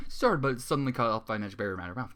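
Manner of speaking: ordinary delivery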